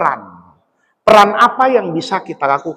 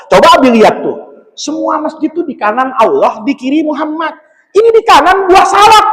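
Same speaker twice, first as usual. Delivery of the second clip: put-on child; 7 semitones higher than usual. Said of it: "kata dia".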